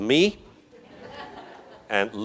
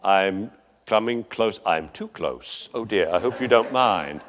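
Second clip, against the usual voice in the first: cautious puppy; 4 semitones lower than usual. Acted. Respectful puppy edging up to Whip, lightly voiced caution.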